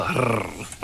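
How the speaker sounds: low rolled "rrr"; short low growl, shown as a demo; demonstrated animal noise. Shown as a demonstration. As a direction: imitate a low dog growl, softly. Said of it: "like that, right?".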